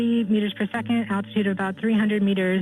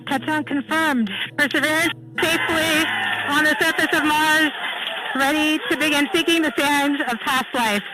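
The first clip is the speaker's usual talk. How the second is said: excited; 6 semitones higher than usual. Real, not acted. Landing confirmed, elated commentary.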